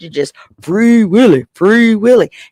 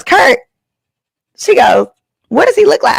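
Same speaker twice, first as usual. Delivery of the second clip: much higher alarmed questions; alarmed roommate; 12 semitones higher than usual. Retold or imitated. Roommate recognising the date's name, high alarmed. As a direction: sound suddenly on alert.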